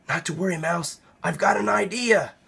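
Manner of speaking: a hushed, easy-going rabbit; Rabbit's voice. Acted. Rabbit reassuring Mouse, soft and unhurried.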